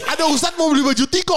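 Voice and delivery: high, excited retelling to wife; heboh. Retold or imitated. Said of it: "gua bilang ke bini gua gitu". (heboh cerita ke istri)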